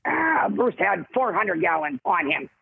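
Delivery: slow, lightly voiced producer impression; a hint of Rob drawing it out slowly; Rob Tappert impression. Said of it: "Bruce's impression of him is the best, obviously, but this is my version".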